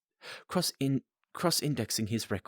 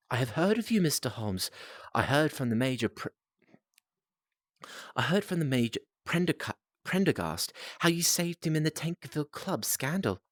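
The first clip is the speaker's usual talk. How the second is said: put-on young client's voice; 5 semitones higher than usual.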